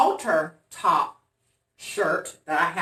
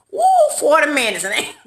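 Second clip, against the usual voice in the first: loud, high, hurried laughing outburst; 8 semitones higher, 7 dB louder, faster than usual. Real, not acted. Admitting she talked forty minutes, laughing loudly. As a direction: burst out laughing at yourself. Laughing at her long storytelling.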